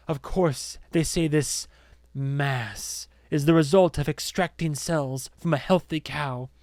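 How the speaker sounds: lightly voiced solemn demagogue; measured indictment played to unseen followers; accuser addressing an audience. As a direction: let the accusation build, then settle knowingly.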